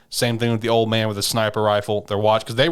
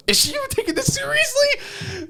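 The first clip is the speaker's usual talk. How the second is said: doubting thought. Retold or imitated. Shinpei's doubting thought, voiced.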